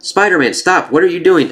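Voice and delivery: high, urgent acted protest; calling him out. Norman calling Spider-Man out, high urgent protest. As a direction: call out in alarm to halt someone. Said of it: "Norman's the one that calls him out".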